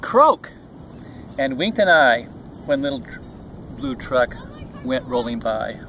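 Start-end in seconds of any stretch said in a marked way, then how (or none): 0.0-0.5 high, punched toad croak; lively high croak for a storybook toad; toad's croak. A narrator's reading. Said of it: "Toad said".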